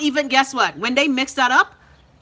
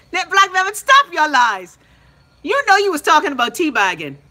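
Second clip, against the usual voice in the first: teasing accusation; 6 semitones higher, 6 dB louder than usual. Real, not acted. Host teasing a viewer for fibbing, high and stretched. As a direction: draw it out and call her bluff.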